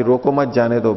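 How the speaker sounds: "रोको मत" grouped together, then "जाने दो"; मत joined to रोको. Shown as a demonstration. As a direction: attach मत to रोको, not to जाने दो. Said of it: "इसको उल्टा भी कर सकते हैं".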